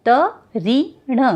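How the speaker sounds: त, री, ण said apart, slowly; sounded out slowly. Shown as a demonstration. Teacher to children, sounding out slowly. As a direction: spell तृण out sound by sound. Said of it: "म के साथ री का साउंड आएगा".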